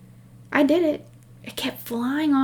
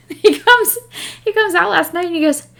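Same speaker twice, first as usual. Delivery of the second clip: much higher, louder storyteller buildup; excited build-up; 8 semitones higher, 8 dB louder than usual. Real, not acted. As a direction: ramp up for the twist. Building to the punchline.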